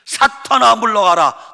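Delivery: loud, high stern command; Jesus sternly rebuking Peter, loud and commanding; scolding rebuke. Acted. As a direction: cast him off with a sharp shout. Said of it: "야단을 칩니다".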